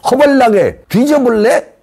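high, slow Jeolla dialect threat. Pretend. Caller threatening the party in Jeolla dialect, high and slow. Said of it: "그 욕하는 폭탄을 그냥 날려주세요".

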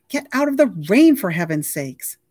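called out loud and high, then settling; calling someone in from the rain. A narrator's reading. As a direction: shout across the rain to him. Raven calling Wahoo from rain.

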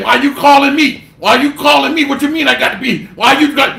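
a mocked brother complaining he was called up; mock protest. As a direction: whine like someone refusing the call. Mocking an objection to the call.

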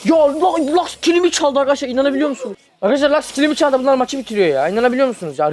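high, loud disbelief to viewers; outraged complaint. Real, not acted. Telling viewers Lux stole his kill, loud outrage.

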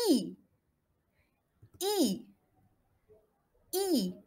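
"I" as a clear, falling "ee"; well-spread French I. Shown as a demonstration. Teacher drilling the third vowel, "I" as a spread "ee". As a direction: spread "I" fully into ee, never é. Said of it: "نكسر bien le I".

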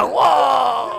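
long, high, loud yell; shout. Acted. Teacher showing the pupil how to yell, loud shout. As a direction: let out a big comic shout. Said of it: "Y grita".

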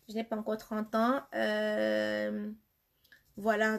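ordinary talk

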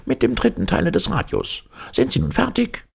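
high, testy repeat of the answer; impatient repeat. Acted. Professor repeating the answer to Servadac, impatient. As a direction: drive it home, losing patience.

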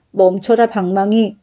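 plain reading voice

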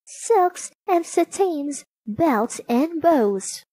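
high, drawn-out sales cry; cackling old peddler. A narrator's reading. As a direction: tout your wares slowly as a crafty old woman. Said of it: "the woman cackled".

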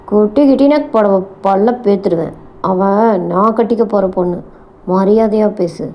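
restrained, menacing rebuke; mildly acted gangster's threat, voice kept down; angry snarl. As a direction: warn an underling with contained anger. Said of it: "Paranthaman போனில் சீறினான்".

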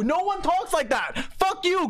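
ordinary talk, nothing marked

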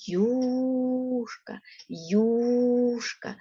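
юшка said slowly and clearly, stress on the first syllable; careful classroom pronunciation of юшка; clear teacher demo. Shown as a demonstration. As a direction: model юшка for the children, syllable by syllable. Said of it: "Вимовте слово юшка".

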